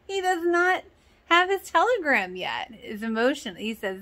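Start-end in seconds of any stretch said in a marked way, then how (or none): 0.1-2.7 high, giggling through the words; can't keep a straight face saying it; laughing. Real, not acted. Viewer laughing while recapping the show to camera, high giggly voice. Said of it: "restarts laughing".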